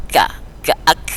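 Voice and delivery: "Ka, ka, ak" with a light, breathy k; letter kaf. Shown as a demonstration. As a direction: release the k of "ak" with a puff of air. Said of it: "berarti huruf kaf".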